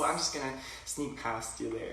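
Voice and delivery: mock polite Canadian shopper, accented. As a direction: excuse yourself with a Canadian accent. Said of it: "that's a very Canadian thing".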